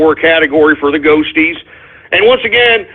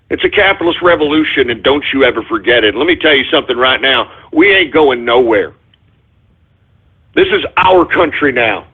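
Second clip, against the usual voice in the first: emotional; 4 semitones lower than usual. Real, not acted. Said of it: "I'm getting a little emotional".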